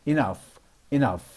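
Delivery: "enough" ending in an F sound. Shown as a demonstration. Teacher repeats a model word for learners, "enough" ending in F. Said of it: "지에이치도 F 발음이 납니다".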